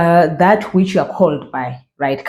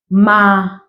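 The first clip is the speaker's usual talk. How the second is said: a bit slower. Shown as a demonstration. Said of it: "a bit slower".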